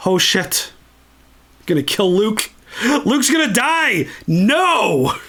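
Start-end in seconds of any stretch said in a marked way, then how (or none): 2.8-5.2 higher, gasping dismay; alarmed outcry. Real, not acted. Fan reacts as Luke is struck, gasping alarm. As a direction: cry out in fan panic.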